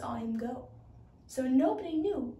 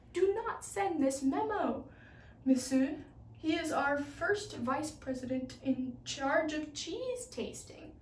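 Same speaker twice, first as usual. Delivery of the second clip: pleading; 2 semitones higher than usual. Acted. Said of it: "Almost in tears, she pleaded".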